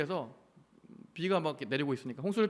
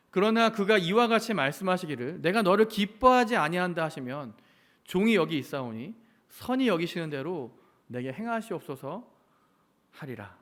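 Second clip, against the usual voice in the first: scripture reading; 3 dB louder than usual. Acted. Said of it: "이렇게 고백을 합니다".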